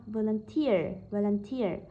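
"volunteer" stressed on its last syllable, "teer"; stress on third syllable. Shown as a demonstration. Teacher models word stress, "volunteer" with third syllable stressed. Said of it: "rơi vào âm tiết thứ ba".

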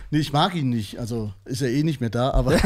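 ordinary talk, nothing marked

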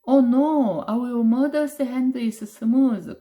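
high, loud alarmed outcry; crying out. Acted. Big brother to tiger, crying out in alarm. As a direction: cry out in panic. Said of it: "cried out the big brother".

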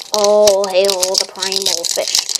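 slow, drawn-out chant of homage; mock solemn hail. Card collector hailing a fish card, slow mock reverence. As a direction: intone it like a playful worshipper.

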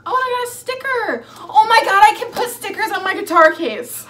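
high, loud burst of delight; excited squeal. Real, not acted. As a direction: squeal over a surprise gift. Delighted to find a sticker.

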